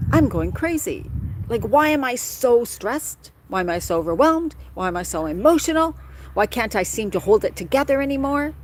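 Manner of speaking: mildly dramatized fraying patience; acted exasperation. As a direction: voice someone at the end of their rope. Voicing overwhelmed inner thoughts.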